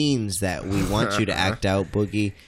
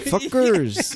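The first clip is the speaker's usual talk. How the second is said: higher laughing mock Friday character; Latino guy impression; 10 semitones higher than usual. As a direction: another go at the movie guy. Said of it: "Let me try it again".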